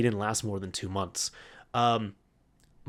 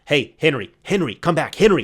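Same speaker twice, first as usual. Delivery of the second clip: calling after someone, a bit louder; half-raised retold yell; mild mock yell; 2 semitones higher, 6 dB louder than usual. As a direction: imitate a boss calling someone back. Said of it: "He starts yelling at him".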